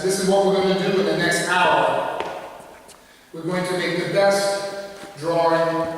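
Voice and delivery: each word set down firmly, slowing near the end; commanding teacher. Retold or imitated. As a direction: lay down the challenge like a coach. Teacher setting students a challenge.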